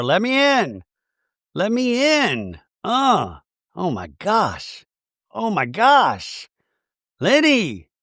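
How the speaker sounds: high, slow imitation of a locked-out woman; mock wailing plea. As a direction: draw each plea out high. Voicing Mary shut outside her door.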